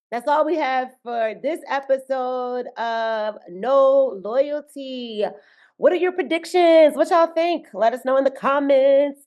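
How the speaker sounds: slow, announcer-like outro; a lightly announced show outro; podcast sign-off. Acted. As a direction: wrap up the episode like a host.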